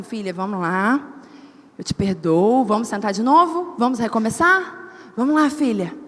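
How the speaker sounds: God speaking tenderly. Retold or imitated. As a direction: coax her kindly to start again. Deus fala com ternura. (Deus falando com ternura, voz mais grave e suave)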